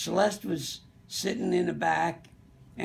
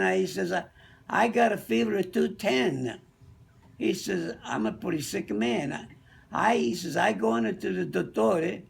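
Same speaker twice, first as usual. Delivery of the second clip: put-on Italian accent; 3 semitones higher than usual. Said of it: "Tony was a little Italian guy".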